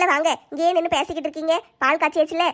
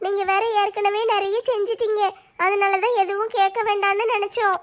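tearful, slightly raised voice; 2 semitones higher than usual. Acted. Daughter-in-law explains to her uncle why she didn't ask, tearful. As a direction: explain apologetically through held-back tears.

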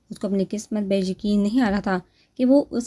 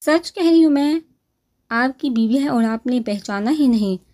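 high, emphatic opening easing down, with a smile; smiling insistence; 4 semitones higher, 4 dB louder than usual. A narrator's reading. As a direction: tell it with an amused smile, starting high and loud. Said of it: "انہوں نے مسکراتے ہوئے کہا".

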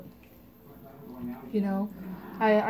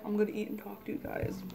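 chewing while speaking; eating between words; talking with mouth full; 3 dB quieter than usual. Real, not acted. Seen 0: Bite from fork at +0.5, then talks, likely still chewing.

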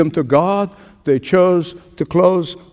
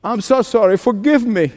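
a touch of pleading sorrow, voice raised; mock penitent plea; 5 semitones higher than usual. A preacher voicing a sinner begging forgiveness, mildly pleading. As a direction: plead lightly like a sorry sinner. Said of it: "cry out to God and say".

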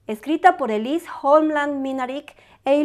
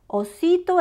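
ordinary delivery, nothing marked

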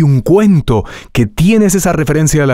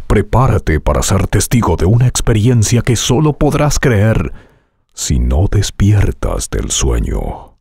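movie trailer voice; 4 semitones lower than usual. Shown as a demonstration. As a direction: announce it like a blockbuster trailer. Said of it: "entrenando tu voz hoy con trailers de películas".

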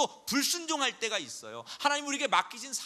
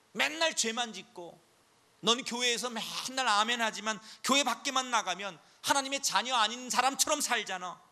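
taunting Satan. Acted. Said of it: "사탄이 뭐라고 부채질하는 줄 알아요".

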